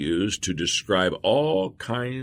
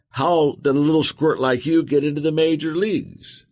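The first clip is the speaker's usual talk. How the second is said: high-pitched narrated heckling taunt; jeering cadet's shout, moderately raised; shouted heckle; 8 semitones higher than usual. A narrator's reading. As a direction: holler it to get under his skin.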